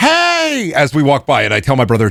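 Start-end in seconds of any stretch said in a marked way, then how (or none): 0.0-0.7 put-on very high, shrill, stretched-out scream. Retelling an old lady calling out from her apartment: imitating an old lady screaming. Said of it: "she keeps screaming, like".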